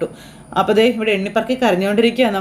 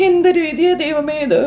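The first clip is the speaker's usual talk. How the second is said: slow, higher lament, crying to God; wailing in grief; 5 semitones higher than usual. Acted. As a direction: wail it out slowly as if fate struck. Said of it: "ഭയങ്കര കരച്ചിൽ".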